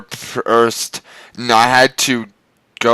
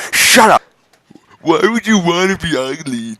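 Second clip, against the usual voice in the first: exasperated shout; 7 semitones higher than usual. Real, not acted. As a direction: cut it off in exasperation. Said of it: "reader snaps".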